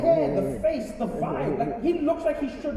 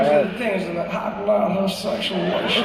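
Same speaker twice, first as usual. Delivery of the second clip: mock-seductive presidential impression; hammed-up seductive politician, louder; Bill Clinton; 5 dB louder than usual. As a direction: speak as if seducing the audience. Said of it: "He sounded like he was trying to seduce the audience".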